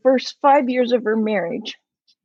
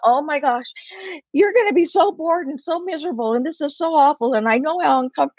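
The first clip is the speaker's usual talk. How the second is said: gushing pity; 4 semitones higher, faster than usual. Retold or imitated. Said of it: "And I just went".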